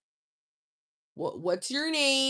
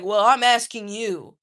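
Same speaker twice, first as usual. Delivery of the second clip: mildly mad guy; 3 semitones lower, 7 dB louder than usual. Retold or imitated. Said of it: "he got mad".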